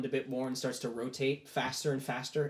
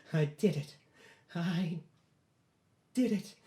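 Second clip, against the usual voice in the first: halting, disbelieving, rising higher; breathless triumph; 4 semitones higher than usual. Acted. Boy recovering after beating the demon, halting triumph. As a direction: pause between words as success sinks in.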